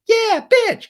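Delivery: very high, loud squawk; mock shout. Recapper acting out the jeer at Raquel, high mock shout. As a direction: yell it shrieky and hammed-up.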